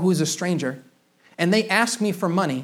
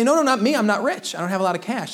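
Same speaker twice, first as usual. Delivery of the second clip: defensive protest; 2 semitones higher than usual. Acted. Congregation pushing back on the text, defensive. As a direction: protest lightly on the listeners' behalf. Acted protest of resisting listeners.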